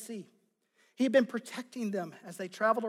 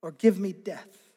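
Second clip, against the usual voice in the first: mild ultimatum; 2 semitones higher, 4 dB louder than usual. Acted. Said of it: "and he says".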